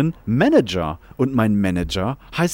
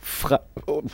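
crunching chips; 6 semitones higher, 4 dB quieter than usual. Real, not acted. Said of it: "Oh, dieser Knabberspaß".

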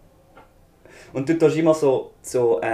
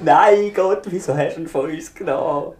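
hammy stage actor; 5 semitones higher, 3 dB louder than usual. Pretend. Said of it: "so mega theatralisch".

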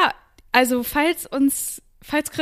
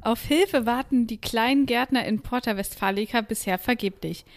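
news report. Acted.

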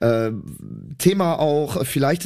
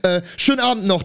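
flustered excuse; 4 semitones higher than usual. Retold or imitated. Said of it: "Ich so".

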